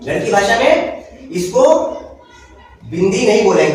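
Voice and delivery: "गणित की भाषा में इसको" said slowly, then "बिंदी नहीं बोलेंगे" with a firm fall; teacher repeating the point slowly so it sinks in; slow, deliberate teacher repeat; slow repeat for emphasis. Shown as a demonstration. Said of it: "बिंदी है, लेकिन गणित की भाषा में".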